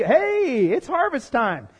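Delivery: spot it and call out eagerly; lightly acted gleeful discovery; excited call. Raiders spotting the harvest.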